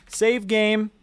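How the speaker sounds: announcing. Real, not acted. Announcing saving the project.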